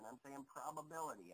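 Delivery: "probability" said as the key word; emphasis on probability. Real, not acted. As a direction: lean on "probability" to qualify the claim. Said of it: "I now emphasize, listen to what I'm saying".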